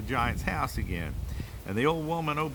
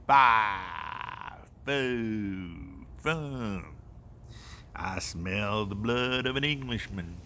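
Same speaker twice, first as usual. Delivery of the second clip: giant voice; slower than usual. Acted. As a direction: drag out each word like a huge giant. Giant repeats the chant.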